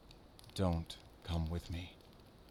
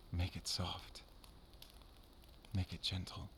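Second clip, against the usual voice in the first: soft, hushed request; tender; 10 dB quieter, slower than usual. Acted. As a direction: ask quietly for a last kiss. Asking for one last kiss.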